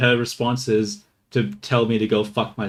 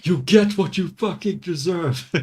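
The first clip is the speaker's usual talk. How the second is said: higher, slow villain impression; Joker; 5 semitones higher than usual. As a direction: draw it out like a movie villain's payoff. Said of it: "The fucking Joker thing".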